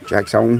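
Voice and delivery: Jackson ending in a long "sone"; name with a twist. Real, not acted. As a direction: give Jackson a fancy long O at the end. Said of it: "Had to put a little twist on it".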